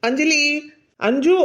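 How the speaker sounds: each call lifted at the end; calling after someone. Acted. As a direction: call out to stop someone leaving. Calling after upset Anjali.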